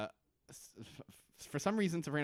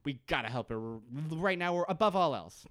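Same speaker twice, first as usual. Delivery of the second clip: higher, pressing and desperate; urgent Desmond; 5 semitones higher than usual. Retold or imitated. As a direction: plead that they must save her now. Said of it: "Desmond is wholly like".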